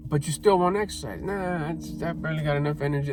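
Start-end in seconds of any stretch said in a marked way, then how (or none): 1.2-3.1 half-hearted put-on reluctance; feeble excuse. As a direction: beg off quietly, as if drained. Voicing an excuse to skip exercise.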